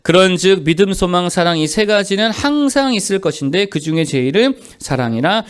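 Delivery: steady, solemn reading of the verse; scripture reading. Shown as a demonstration. Pastor reading the verse aloud to the congregation, solemn. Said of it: "십삼 절 읽어보겠습니다".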